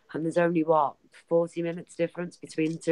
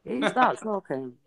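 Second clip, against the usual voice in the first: surprised questioning; 2 semitones higher than usual. Acted. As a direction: ask as if amazed at who spoke. Mock surprise at Sean's accent.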